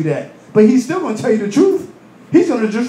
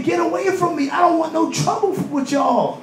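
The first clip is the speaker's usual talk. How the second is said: Pharaoh shouting away; 7 semitones higher than usual. Acted. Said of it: "He was saying".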